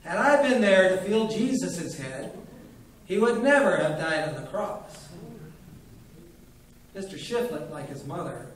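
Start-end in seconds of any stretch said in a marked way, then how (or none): 0.0-5.0 voice trembling with emotion. A narrator's reading. Old doctor moved by his own claim, trembling. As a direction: let the emotion shake through it. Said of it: "his voice trembled with emotion".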